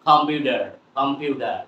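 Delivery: "কম্পিউটার" with D in place of T. Shown as a demonstration. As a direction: say "কম্পিউটার" as "com-pyu-der". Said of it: "কি বলবো এখন থেকে?". ("কম্পিউটার"-এর ট হবে ড)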